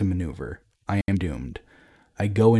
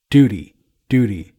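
much louder, scornful repeated word; shouting; 10 dB louder than usual. A narrator's reading. Father to his daughter who spoke of duty, shouting. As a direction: throw the word back as an accusation. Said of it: "Everyone cowers before his shout".

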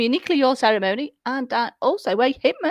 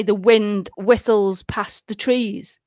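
1 slow hypnotist voice; slower than usual. Shown as a demonstration. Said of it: "if you say".

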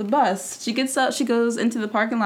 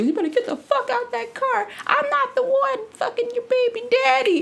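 mock furious; 14 semitones higher than usual. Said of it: "loses it".

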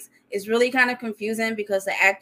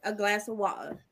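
British accent; 6 dB quieter than usual. Shown as a demonstration. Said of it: "give y'all my British accent".

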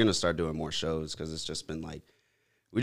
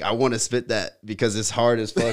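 excited, louder hyped quote; quoting his hype, louder and higher; 5 semitones higher, 7 dB louder than usual. Retold or imitated. Retelling studio hype, laughing.

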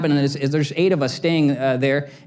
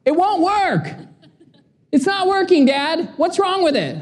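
retold yelling; 12 semitones higher than usual. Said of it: "But I hear her yelling".

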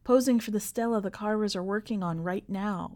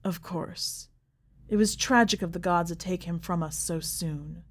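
feigned sincerity. Acted. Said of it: "She manages to sound sincere".

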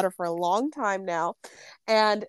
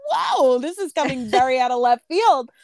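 surprised reaction; 2 semitones higher than usual. Retold or imitated. Cohost retelling her reaction to the client's insults, surprised. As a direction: retell being taken aback, pitch leaping on the first word.

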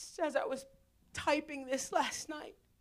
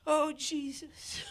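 slow prayer; slower than usual. Real, not acted. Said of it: "slow prayer".

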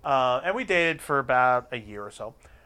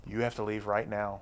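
hushed urgent warning; 5 semitones lower, 10 dB quieter than usual. Retold or imitated. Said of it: "and he goes".

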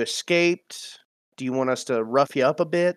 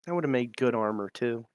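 mumbling; 2 semitones lower, 8 dB quieter than usual. Acted. Luther to himself after they get his silk off, mumbling. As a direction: mumble it softly under your breath. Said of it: "you're gonna hear Luther mumble".

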